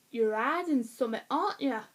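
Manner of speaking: attempted Yorkshire accent, h dropped. Shown as a demonstration. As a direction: try a broad northern English accent. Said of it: "Yorkshire accent".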